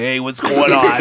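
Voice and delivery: Konohamaru. Acted. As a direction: fake New York wiseguy kid. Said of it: "Konohamaru sounds like".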